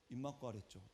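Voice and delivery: low, quiet retold reprimand; scary stern doctor. Doctor glares down at the patient, scarily stern. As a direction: imitate a cold, quiet telling-off. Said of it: "너무 무섭게 말씀하셔갖고".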